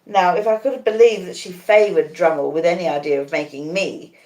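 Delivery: ordinary delivery, nothing marked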